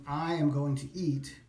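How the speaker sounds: slow, emphatic "I am going to eat". Shown as a demonstration. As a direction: give "I" deliberate weight and slow down. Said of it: "emphatically something".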